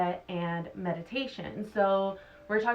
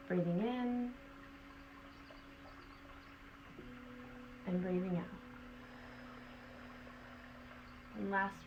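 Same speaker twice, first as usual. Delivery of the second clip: guided meditation. Acted. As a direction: guide them gently through the breaths. Leads breath work meditation.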